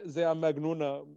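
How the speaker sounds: put-on German accent; mock foreign accent with an Arabic word; lightly played German visitor; foreigner from Berlin. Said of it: "I do sometimes do the foreigner".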